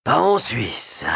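slow, wry grin in the voice; grimacing smile. Acted. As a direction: drag it out with a grimace. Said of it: "avec un sourire grimaçant".

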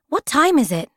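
high, groggy question; stifling a yawn. A narrator's reading. Waking girl asking Dad, groggy. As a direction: ask it through a yawn. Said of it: "stifling a yawn".

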